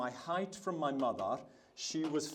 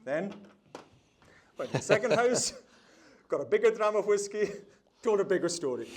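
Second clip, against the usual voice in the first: louder, higher storytelling escalation; building up; 6 semitones higher, 7 dB louder than usual. Real, not acted. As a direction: lift pitch and volume as the tale grows. Tale escalates house by house.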